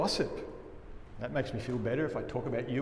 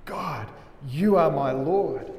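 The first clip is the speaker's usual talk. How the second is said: louder, joyful cry to God; rejoicing; 4 dB louder, slower than usual. Retold or imitated. David rejoicing before God, a louder joyful cry. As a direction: proclaim it like a man rejoicing. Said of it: "He was rejoicing".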